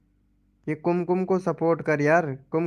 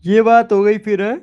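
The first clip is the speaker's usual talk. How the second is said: loud shout; 5 semitones higher, 9 dB louder than usual. Real, not acted. Streamer shouts catchphrase at chat.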